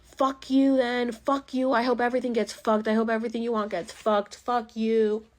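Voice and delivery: high, loud mock rant at his kid; hammed-up furious parent; imitating an angry dad. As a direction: bark it out like an explosive father. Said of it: "the next minute he's like".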